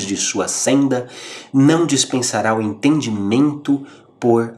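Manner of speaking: measured formal reading of a spiritual text; reading aloud. Acted. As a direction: read it like a solemn passage. Reading Emmanuel passage.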